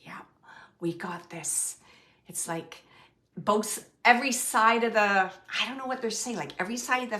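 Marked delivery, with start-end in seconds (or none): 0.0-2.8 soft knowing whisper. Retold or imitated. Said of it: "like a knowing smiling".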